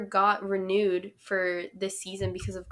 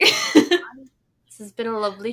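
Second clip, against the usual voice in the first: mock British accent; 3 semitones higher, 4 dB louder than usual. Closing callback to British accents.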